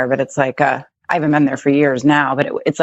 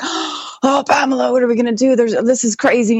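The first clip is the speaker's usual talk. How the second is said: higher-pitched mock panic; imitated freaking out; 7 semitones higher than usual. Wife retells her Italian husband at the locked car, freaking out. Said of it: "He's, like, freaking out".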